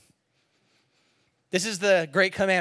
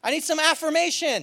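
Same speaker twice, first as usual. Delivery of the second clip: higher, pleading and needy; whiny plea to God; 10 semitones higher, 3 dB louder than usual. Pretend. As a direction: beg God for reassurance. Driver complaining to God.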